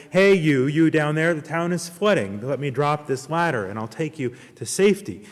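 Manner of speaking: megaphone shout. Acted. Helicopter man shouting down to the man below, loud. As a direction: call down to him loudly. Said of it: "a guy with a megaphone shouted".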